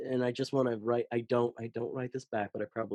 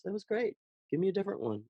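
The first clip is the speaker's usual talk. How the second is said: much higher, a lightly voiced friendly casting director; 9 semitones higher, faster than usual. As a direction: chirp it like the nice casting director asking for another take.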